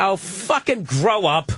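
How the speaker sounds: slow, drawn-out exasperation; retold irritated put-down; annoyed retort. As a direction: stretch the words out, fed up. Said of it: "I was so annoyed by saying".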